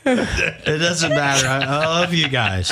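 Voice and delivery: put-on slow, laughing drunken mumble; mock drunk friend gushing, slow; sloppy drunk. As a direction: slur the love like a happy drunk. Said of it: "pretend you're drunk".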